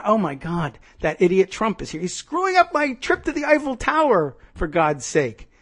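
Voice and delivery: acted-out indignant whine; exasperated tourist. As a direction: complain like a thwarted tourist, pitch climbing. Acted annoyed Eiffel Tower tourist.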